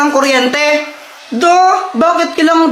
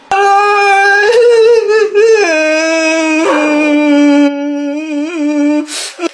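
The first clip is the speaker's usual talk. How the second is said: long drawn-out mock wail; pag-iyak. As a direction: bawl on and on like a kid. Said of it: "tumigil nga kayo sa pag-iyak". (umiiyak nang pahaba)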